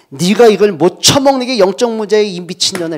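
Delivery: 화난 엄마 흉내로 높고 크게 소리치기; 딸에게 버럭 고함치는 엄마 연기; 엄마의 고함. Retold or imitated. 엄마가 딸에게 소리침. (딸에게 화가 터진 엄마의 고함)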